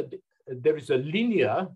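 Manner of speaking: mild teaching stress on "linear". Real, not acted. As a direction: mark "linear" with a light lecturer's emphasis. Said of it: "I emphasize the word linear".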